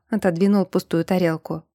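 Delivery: plain reading voice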